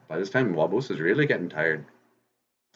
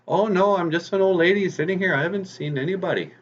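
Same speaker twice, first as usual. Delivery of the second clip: fake old lady; 11 semitones higher than usual. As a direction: play a sweet old granny to hide. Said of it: "he goes".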